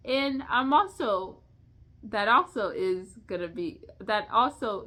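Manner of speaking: restarting the phrase, losing the thread; real halting, self-interrupted speech; stuttering. Real, not acted. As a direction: stumble over false starts as thoughts scatter. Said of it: "Me stuttering, not getting my thoughts together".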